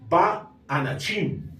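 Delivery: "ba anachim" read slowly, each syllable sounded out; Hebrew reading. Shown as a demonstration. Teacher sounding out "ba anachim" slowly for Spanish-speaking students. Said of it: "Y esta palabra entonces se leería".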